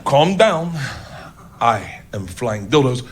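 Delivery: low, slow, deliberate announcement; German performer. Retold or imitated. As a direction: imitate a stern German woman taking charge. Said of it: "German woman, six feet tall".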